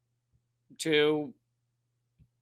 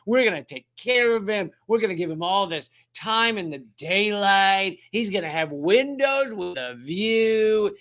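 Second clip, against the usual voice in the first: exaggerated British accent with stretched-out words; 3 semitones higher than usual. US government promising Assange luxury prison, in a mock British accent. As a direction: gush reassurances in a put-on British accent, rising much higher at the end. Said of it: "giving them a British accent".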